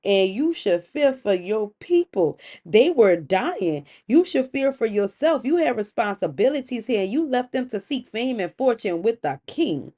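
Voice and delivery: mildly heated accusation with punched words; accusing. Acted. Wife reproaches husband for leaving his people, accusing. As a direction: lay out each charge with emphasis. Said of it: "like, an accusation".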